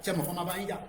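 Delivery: usual speaking voice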